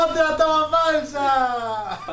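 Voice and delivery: slow, drawn-out shout. Real, not acted. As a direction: call it out slowly. Shouting another take.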